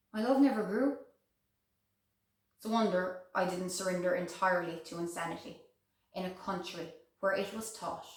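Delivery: soft, subdued lament; wistful regret. Acted. Widow regretting a life without love, wistful and hushed. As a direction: mourn the lost love quietly. Mourning love she never had.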